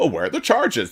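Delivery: put-on commentator voice. Mocking right-wing pundits' talking point about charges: mocking Tucker Carlson, Laura Ingraham, Sean Hannity. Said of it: "doing their level best to tell us all how".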